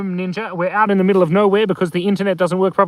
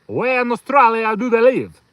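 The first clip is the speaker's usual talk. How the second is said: higher, louder, hammed-up Canadian accent; exaggerated stab at Canadian, pitched up; Canadian accent attempt; 6 semitones higher, 5 dB louder than usual. Shown as a demonstration. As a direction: push the mock Canadian accent harder. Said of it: "Is that a Canadian accent?".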